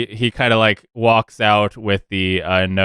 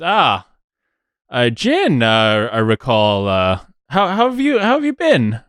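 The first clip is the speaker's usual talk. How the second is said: sly little gnome, pitch jumping way up; chummy gnome greeting; 2 semitones higher than usual. Acted. GM voices gnome greeting Jin.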